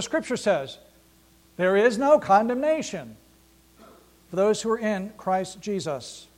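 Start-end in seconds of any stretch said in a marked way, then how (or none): 1.6-6.3 preacher declaring the verse back to the congregation; proclaiming. Acted. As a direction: ring it out as the answer to the lie.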